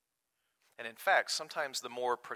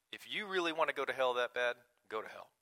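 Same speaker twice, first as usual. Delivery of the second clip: crass dismissal. Retold or imitated. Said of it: "I know this sounds crass".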